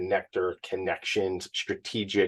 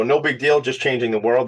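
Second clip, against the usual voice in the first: tongue in cheek; 3 semitones higher than usual. Shown as a demonstration. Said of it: "That's tongue in cheek".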